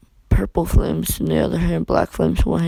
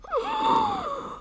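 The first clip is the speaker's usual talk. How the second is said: sudden drawn breath; breathy gasp sound effect; sharp gasp; 5 dB quieter than usual. Acted. Storyteller after the burning threat, sharp gasp.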